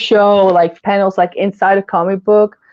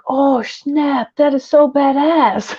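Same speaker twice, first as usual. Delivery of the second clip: higher, thrilled fangirl reaction; higher, amazed and laughing; excited oh snap; 7 semitones higher, slower than usual. Retold or imitated. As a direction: gush like a first time reader. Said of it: "But I was like".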